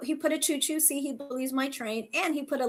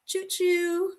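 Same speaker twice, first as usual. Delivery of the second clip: light choo-choo; 6 semitones higher than usual. Shown as a demonstration. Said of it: "you do the choo-choo".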